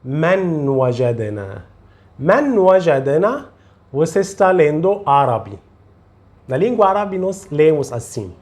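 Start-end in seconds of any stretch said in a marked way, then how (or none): 0.0-3.4 من وجدنا with a plain, clear n before the w; without the rule. Shown as a demonstration. Teacher warns learners what not to say, plain n in من وجدنا. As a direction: keep the n of من unmerged, no long nasal glide. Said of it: "Não diga".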